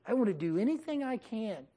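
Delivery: lightly voiced humble uncle; humble pleading. Humbled Abraham pleads with Lot.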